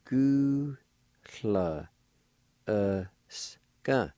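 "Gu la e ska" split up; careful syllables. Shown as a demonstration. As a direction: sound out "Gu, la, e ska". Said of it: "Pronounce like this".

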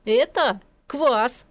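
slow, amused reply through a chuckle; chuckling. A narrator's reading. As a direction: say it while still giggling. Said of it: "продолжая посмеиваться".

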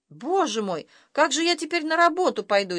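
frightened dad. A narrator's reading. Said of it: "испугался папа".

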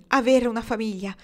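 joyful exclamation. A narrator's reading. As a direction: carry the happy exclamation through. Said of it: "esclamò Lauren". (esclamazione felice, con voce più alta)

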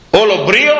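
proud Samaritan woman. Retold or imitated. Preacher lightly mimicking the haughty Samaritan woman, with a bit of swagger. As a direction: play her full of swagger, only lightly. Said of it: "Πήγε, λέει, εκεί στον Κύριο, έτσι".

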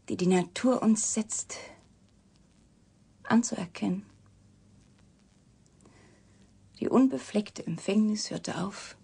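slow, hushed conspiratorial whisper. Acted. Revealing the professor's secret to the reporter, slow whisper. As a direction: breathe the secret out slowly.

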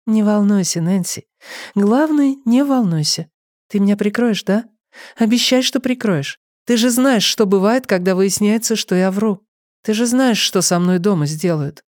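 gentle reassuring. Acted. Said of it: "ответила ласково и успокаивающе".

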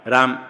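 राम as one syllable, raam; final vowel dropped. Shown as a demonstration. Teacher shows the wrong way, राम ending on m. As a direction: end राम on a closed m, no vowel after. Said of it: "कोई कोई बोलते".

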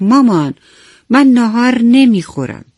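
put-on a small boy, close to tears, refusing lunch; choked-up child. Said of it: "با بغض و ناراحتی گفت". (با بغض، صدای کودکانه)

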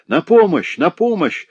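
high, loud choked call of help; strangled cry for help. A narrator's reading. Strangled old woman calls for help, desperate. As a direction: cry out as the hands close on her throat. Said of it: "прохрипела она сдавленным голосом".

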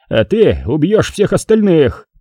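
understated gang boss yell, drawn out; mild yelled order. A narrator's reading. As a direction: order it with restrained fury. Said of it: "проорал главарь шайки".

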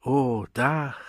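as if waking into sunlight; enraptured. Acted. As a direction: lift attendant marvelling at the roof. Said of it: "wiederholte er verzückt".

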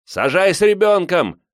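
high, loud demand; urgent high-pitched call; crowd shout. A narrator's reading. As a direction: yell it out from the crowd.

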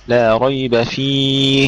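فيه slow with the ه breathed clearly; clear هاء. Shown as a demonstration. Teacher repeating the model line, slow. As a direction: let the ه of فيه be heard. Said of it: "لم تظهري الهاء".

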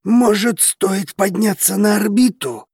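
high, flustered suggestion; stunned suggestion. A narrator's reading. Stunned Dragos to his friend, flustered high suggestion. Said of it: "предложил не менее ошеломлённый Драгос".

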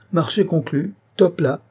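jovial notary closing the sale; deal sealed. Acted. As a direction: clap on the deal. Sealing the deal.

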